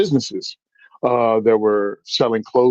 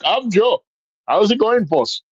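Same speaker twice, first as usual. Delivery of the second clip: high, breezy mock Indian accent; put-on Indian accent; 9 semitones higher than usual. Customer walking into the store, greeting staff in mock Indian accent. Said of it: "I just rolled into it".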